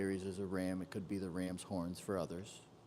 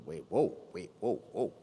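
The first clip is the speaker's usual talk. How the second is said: surprised; 7 dB louder than usual. Real, not acted. Sudden surprise at chart.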